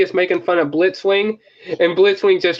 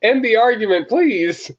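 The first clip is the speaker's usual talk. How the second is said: high, drawn-out zany voice; crazy face; 8 semitones higher than usual. Retold or imitated. Fan quoting the crazy face to a friend, high and zany. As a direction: stretch it out high like a mad cartoon robot. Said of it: "the crazy face is like".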